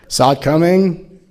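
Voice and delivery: mock-proud sing-song voice, lightly put on; smug spiritual champion. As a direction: parody a self-satisfied guru patting himself on the back. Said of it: "I'm not sitting here going".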